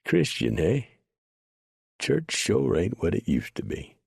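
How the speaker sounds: amused. A narrator's reading. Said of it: "Preacher had him a good laugh at that".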